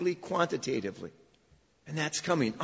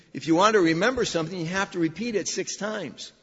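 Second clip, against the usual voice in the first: louder, faster, driving it home; emphatic repeat; 2 semitones higher, 4 dB louder than usual. Shown as a demonstration. Preacher repeating the saying to his congregation, loud and quick. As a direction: hammer the line to make them remember. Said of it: "I've only said it four times".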